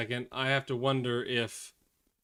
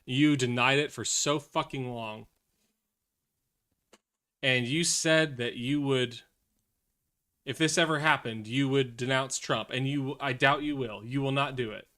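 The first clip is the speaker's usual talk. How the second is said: mock rant at coworker. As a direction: pretend telling-off of a maga coworker. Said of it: "and be like".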